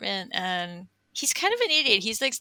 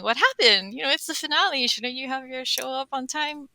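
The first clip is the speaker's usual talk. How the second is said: mildly mock-indignant audience questions, higher at first; wondering listeners; 4 semitones higher than usual. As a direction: imitate puzzled fans asking. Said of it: "are wondering".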